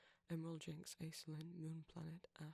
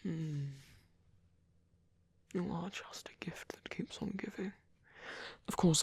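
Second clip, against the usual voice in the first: tender caregiver; 13 dB louder than usual. Acted. Caregiver reassuring a sweet boy about regressing, tender and unhurried. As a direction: comfort gently, pausing between thoughts. In-character comforting roleplay, outro follows.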